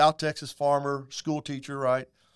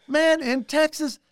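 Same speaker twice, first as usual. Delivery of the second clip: a singer, excited; 11 semitones higher, 5 dB louder than usual. Retold or imitated. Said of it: "He goes".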